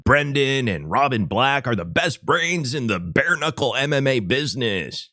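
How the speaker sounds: deadpan mock praise; sarcastic. Podcast host ribbing two commentators, sarcastic. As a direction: say the compliment with tongue in cheek. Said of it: "That's sarcasm, guys".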